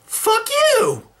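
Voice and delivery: angry yell. Acted. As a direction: scream it at the robot. Insulted, yells at robot.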